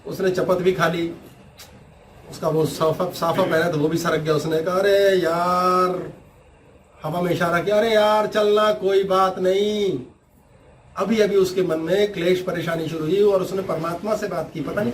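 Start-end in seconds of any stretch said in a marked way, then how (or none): 4.8-10.0 slow resigned sigh. Retold or imitated. Saint sighing, letting go.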